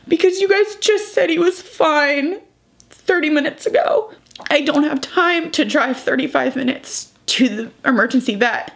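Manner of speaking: high, distressed plea on the phone, retold; choked, high-pitched retold pleading; hysterics. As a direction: retell it upset, pitch climbing as you insist. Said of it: "I called the vet in hysterics".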